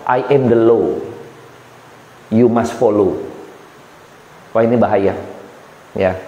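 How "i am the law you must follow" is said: low, measured proclamation of power; haughty self-appointed lawgiver; arrogant decree. Retold or imitated. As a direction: lord it over them as the law.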